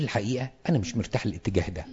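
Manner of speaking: mild and low-key, letting the volume drop; calm, gentle objection. Shown as a demonstration. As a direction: voice a reservation quietly, without heat. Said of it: "نقولها بهدوء".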